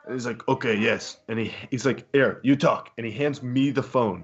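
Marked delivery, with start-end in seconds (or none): 0.5-1.2 lightly put-on Russian accent; curt reply with a hint of Russian; rough imitation of a Russian man; imitated Russian accent. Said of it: "Very thick Russian accent". 2.1-2.9 lightly mocked Russian accent; rough imitation of a Russian man; imitated Russian accent. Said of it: "Very thick Russian accent".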